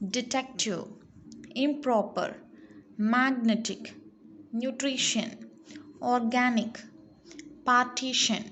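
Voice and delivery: words like "beside" and "attention" stressed on the second syllable. Shown as a demonstration. Teacher drilling a word list, stress on second syllable as in "September". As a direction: lean on the second syllable, as in "canal" and "magnetic". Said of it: "Stress the syllable in bold".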